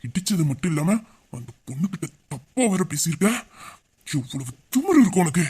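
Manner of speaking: low, restrained anger; menacing rebuke. Acted. Partner confronts man who pushed her, menacing rebuke.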